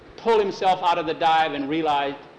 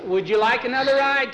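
witch voice; 8 semitones higher, 4 dB louder than usual. Acted. Witch offers another ride.

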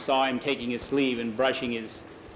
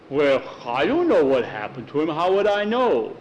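defensive protest. Acted. Norbert again protests his innocence.

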